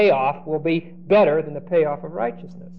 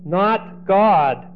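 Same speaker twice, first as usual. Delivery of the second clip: lightly voiced Joseph; 2 semitones higher, much slower than usual. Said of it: "what he says objectively is".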